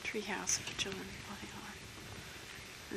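hoarse, worn-out voice going breathy; losing voice. Real, not acted. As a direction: voice fading to a whisper. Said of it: "I'm losing my voice".

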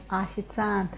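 "официант" starting with a light, unstressed "a". Shown as a demonstration. Teacher contrasting the vowel rule, "официант" begun as unstressed "a". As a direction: soften the first O of "официант" into an "a". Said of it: "When it is not stressed, we pronounce it as A".

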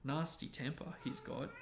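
clear, measured audiobook-style reading; story narration. A narrator's reading. Reading a wizard school chapter aloud to a partner, story narration. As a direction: read it out as a bedtime story.

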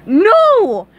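villain caught off guard; too quick. A narrator's reading. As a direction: cut him off in a panic. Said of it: "said a little too quickly".

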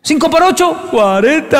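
put-on high child voice getting it right; relieved kid. Boy answering his times table to avoid the belt, high child voice. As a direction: squeak out the answer like a small boy.

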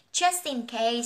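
"Just in case" run together as jus-tin-case; linked s sound. Shown as a demonstration. Teacher showing learners where sounds link, "Just in case" joined up. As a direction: join "Just" straight onto "in case". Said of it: "Chỗ này mình nối âm s này".

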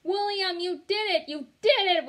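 high, loud joyful cheer; joyful holler. A narrator's reading. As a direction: celebrate him. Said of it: "we hollered real joyful".

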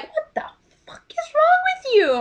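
a high, breathy whispered curse; shocked whisper. Retold or imitated. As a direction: hiss it at her, appalled. Yelling at the actress, retold.

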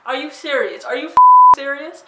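outraged disbelief. Retold or imitated. To the driving teacher backing out, incredulous and rising. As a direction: pitch jumps up, incredulous, rising at the end. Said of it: "And I'm looking at this guy like".

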